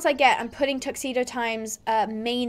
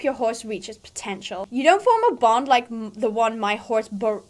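put-on mean girl. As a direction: sneer down at the newbie. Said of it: "like, my mean girl voice".

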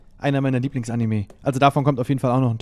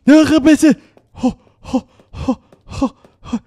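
excited; 10 semitones higher, 7 dB louder than usual. Real, not acted. Tense moment, loud mock laugh.

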